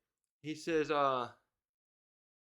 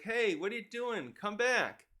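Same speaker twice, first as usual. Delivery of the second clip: higher-pitched retold call to stop; mild mock yell; 6 semitones higher than usual. Recapper voices someone yelling to the kids, mild mock yell. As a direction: imitate someone calling after runaways, pitch up. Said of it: "like, yelling to the kids".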